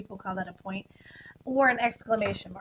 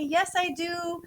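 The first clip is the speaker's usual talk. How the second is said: slow sample answer; 6 semitones higher, slower than usual. Shown as a demonstration. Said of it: "go ahead and tell me".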